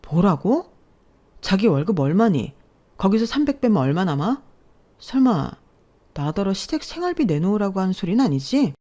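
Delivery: 가볍게 연기한 어이없는 아내; 믿기지 않는다는 듯 살짝 따져 묻기. Acted. (어이없어 따지는 아내 말투)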